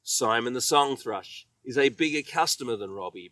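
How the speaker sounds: plain reading voice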